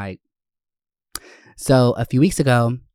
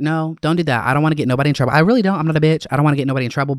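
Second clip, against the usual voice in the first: retold protest; 4 semitones higher, 5 dB louder, much faster than usual. Retelling protest to concerned friend.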